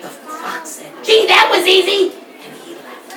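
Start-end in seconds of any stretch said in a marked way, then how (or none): 1.0-2.1 high, loud, bright surprise; amazed fox. Acted. Fox marvels after the bee's rescue, amazed. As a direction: exclaim how easy it was.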